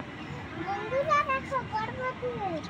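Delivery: put-on slow, soft, careful child repeat of বন্ধুরা. Shown as a demonstration. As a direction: drag out বন্ধুরা very slowly. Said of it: "বলো বন্ধুরা".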